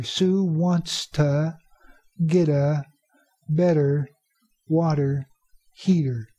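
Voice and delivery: "wants to" as "wanta", "get a" as "gedda", chunk by chunk; reduced sounds, slowed. Shown as a demonstration. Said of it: "these words sticking together and some sounds".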